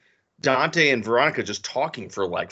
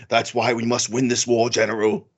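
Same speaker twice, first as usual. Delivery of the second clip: lightly voiced stirring call to a general; mock rousing war speech; 3 semitones lower than usual. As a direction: parody a rousing film speech, pushing a little on General. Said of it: "and then it's like".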